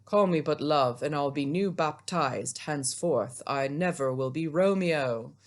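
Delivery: a touch of earnest stage lover; Romeo. Acted. Teacher reading Romeo's reply to Juliet, lightly acted. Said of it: "my best Romeo voice".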